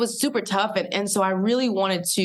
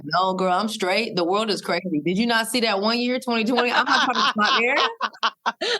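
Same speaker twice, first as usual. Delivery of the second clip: put-on baby son voice; 3 semitones higher than usual. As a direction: play the unborn son, unbothered. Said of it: "He was like".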